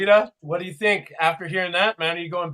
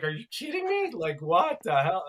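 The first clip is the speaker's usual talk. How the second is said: mock disbelief; 2 semitones higher, 4 dB quieter than usual. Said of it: "just like".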